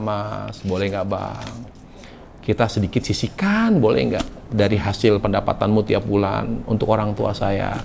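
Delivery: soft, coaxing wife asking her husband; gentle asking. Retold or imitated. Wife asking husband for parents' money, soft and coaxing. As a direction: coax him softly, like a wife asking a favour. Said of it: "Makanya bicarakan baik-baik".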